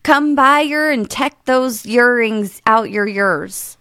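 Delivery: slow, careful attempt at a Welsh accent. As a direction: sound out each word in a Welsh accent. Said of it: "Can I have it one more time".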